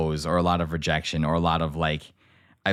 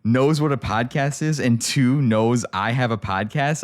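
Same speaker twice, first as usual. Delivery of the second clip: incredulous panic; 6 semitones higher, 3 dB louder, slower than usual. Retold or imitated. Retold inner panic.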